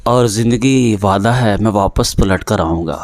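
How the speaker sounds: measured ghazal recital with held pauses; poetry recitation. Acted. Poet recites his teacher's ghazal at the literary meet, measured and deliberate. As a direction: lay out each line for the gathering.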